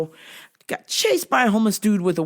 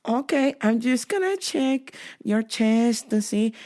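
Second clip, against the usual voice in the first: put-on higher, slow Latina accent; Latina agent accent; 4 semitones higher than usual. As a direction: imitate a Latina officer talking you through it. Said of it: "She's like".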